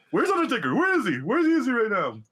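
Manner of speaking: high, swooping mock demand; hammed-up, high-pitched calling; wrestler calling out. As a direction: imitate a wrestler hunting for his rival. Acting wrestler calling out for opponent.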